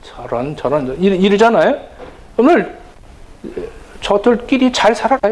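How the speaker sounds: put-on hurt parent grumbling about the children. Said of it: "더 화가 나요".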